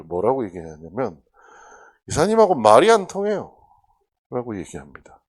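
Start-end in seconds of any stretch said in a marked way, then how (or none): 2.1-3.6 loud, higher-pitched mimicked grievance; imitated staff complaint, raised voice; frustrated complaint. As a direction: protest like an exasperated junior colleague. Voicing frustrated younger staff's complaint.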